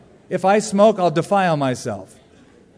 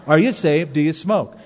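louder, theatrical preacher questions; imitating the evangelist; 4 dB louder than usual. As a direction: fire off the two questions like a stage evangelist. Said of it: "just two questions".

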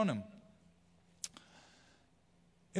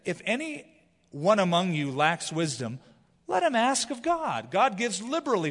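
preaching at full force; 4 semitones higher, 4 dB louder than usual. Acted. Preacher quotes James with force.

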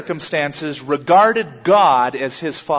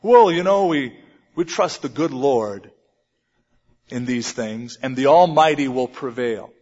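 imitating remote believers, mostly lower; mock the formal churchgoer, dropping low after "Well"; distant piety; 4 semitones lower than usual. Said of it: "people with such a distant relationship with God".

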